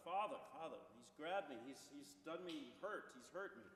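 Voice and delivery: a hint of a child's panic; mock desperate cry. Son cries out to the father that he is hurt, mildly desperate. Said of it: "the son cries out even louder".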